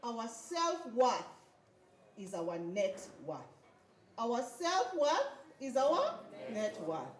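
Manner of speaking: slow, weighted affirmation; slow mantra. Shown as a demonstration. Speaker models the mantra for the audience, slow and deliberate. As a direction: spell out the affirmation slowly. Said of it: "I want us to say".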